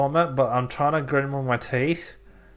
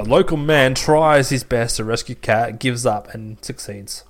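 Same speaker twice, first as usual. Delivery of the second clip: mock headline; 3 dB louder, slower than usual.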